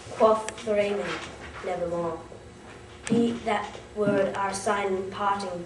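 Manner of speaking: slow, deliberate verse with measured pauses; solemn poem recitation. Acted. Student reciting Poe's The Raven to an audience, slow solemn declaiming. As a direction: draw out the lines, dropping on the refrain.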